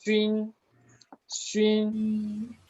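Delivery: "trin" held high and level; pronunciación modelo. Shown as a demonstration. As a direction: model "trin" as a sustained Chinese first tone. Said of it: "Y esta es". ("trin" agudo, sostenido y plano)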